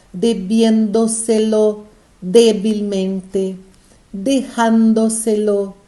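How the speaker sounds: each long word said slowly and clearly, syllable by syllable; sobresdrújulas read slowly. Shown as a demonstration. Teacher reading sobresdrújulas slowly to the class. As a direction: spell out each Spanish word slowly, stressing the accented syllable. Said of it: "Temos aí alguns advérbios".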